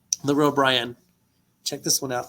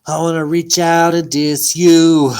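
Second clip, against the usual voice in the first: loud line; 3 semitones higher, 9 dB louder than usual. Shown as a demonstration. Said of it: "Wanna hear that one?".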